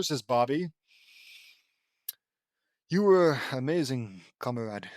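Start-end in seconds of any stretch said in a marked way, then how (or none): 2.9-4.9 lightly put-on Russian accent; a hint of Russian accent, dropping low at the end. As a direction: say it with a mild mock-Russian accent. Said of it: "says Johann in his Russian accent".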